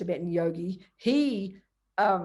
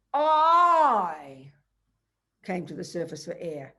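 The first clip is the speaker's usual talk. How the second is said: panicked; 5 dB louder, slower than usual. Shown as a demonstration. Teacher showing how we would say it, mock fearful. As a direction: say it as the frightened little me. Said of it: "full of fear".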